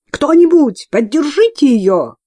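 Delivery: loud alarmed cry; cried out. A narrator's reading. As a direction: call for help, losing control. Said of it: "вскричала мать Изабелла".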